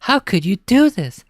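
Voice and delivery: loud, high scolding mother; angry scolding. Acted. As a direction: scold him hard. Mom scolding.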